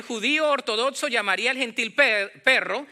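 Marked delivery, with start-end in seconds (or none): none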